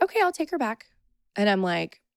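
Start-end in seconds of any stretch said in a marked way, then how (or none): 0.0-0.9 imitating the nurse. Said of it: "And she's like".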